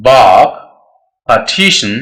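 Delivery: "बाक" and "पार्टीशन" with long aa, r silent; aa sound. Shown as a demonstration. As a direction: drop each r, hold aa in "बाक", "पार्टीशन". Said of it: "आ sound देंगे". ("बाक", "पार्टीशन" में आर खामोश, लंबा आ)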